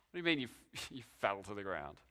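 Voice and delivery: the sergeant scoffs at the report; lightly voiced sergeant, low and quick with a laugh; incredulous sergeant. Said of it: "asks the sergeant".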